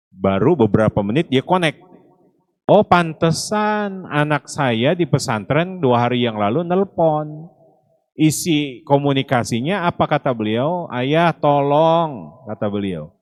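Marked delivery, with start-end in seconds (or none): 2.7-7.5 higher, slow retold "oh, that's why"; dawning realization. Driver connects his son's call, dawning realization. 10.9-12.3 high, very drawn-out imitated plea; pleading son. Son begs his father on the phone, pleading.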